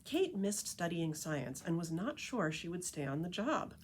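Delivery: lively picture-book read-aloud voice; story narration. A narrator's reading. Reading The Tree Lady to listeners, storytelling narration. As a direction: read it like a storyteller to a group of kids.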